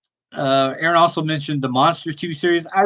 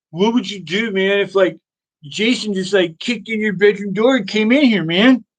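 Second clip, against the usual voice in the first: higher-pitched, lightly voiced stoner; imitating a stoner friend's musing question; stoner buddy; 5 semitones higher than usual. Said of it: "one of those stoner guys that just talks like that".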